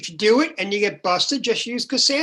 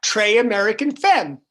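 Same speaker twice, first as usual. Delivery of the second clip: broken tourist French; 4 semitones higher, 5 dB louder than usual. Retold or imitated. Retold broken French request.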